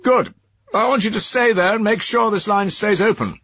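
high, tinny voice over a bad line; faint robotic telephone voice; robot phone voice. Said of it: "robot voice".

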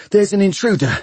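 breathless, high-pitched warning; panted alarm. A narrator's reading. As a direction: pant it out as if you've run downstairs. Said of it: "panted Bevis".

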